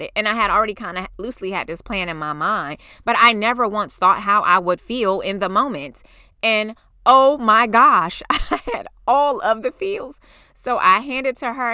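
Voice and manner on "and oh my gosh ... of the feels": slow, louder, drawn-out wonder; overcome. Real, not acted. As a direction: let the feeling overflow. Recalling emotional peak.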